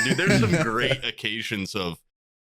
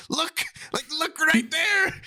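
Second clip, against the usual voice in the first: mocking a leering commenter with a high mock shout; mock creepy excited voice. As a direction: point it out like a drooling fan. Mocking the foot-fetish site.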